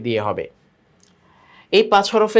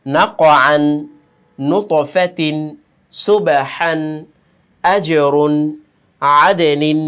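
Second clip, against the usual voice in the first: each word read louder with a bounce on the stopped letter; reading aloud with qalqala; 3 dB louder, much slower than usual. Shown as a demonstration. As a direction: model the words for students, echoing the knock. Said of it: "বানান ছাড়া পড়ি".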